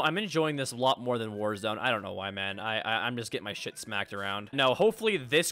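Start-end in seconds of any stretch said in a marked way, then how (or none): 2.6-4.5 repeating the first word; stumbling at the start; stuttering. Real, not acted. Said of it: "I'm stuttering 'cause I'm so mad".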